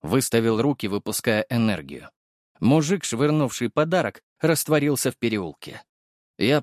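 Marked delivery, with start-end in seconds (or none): none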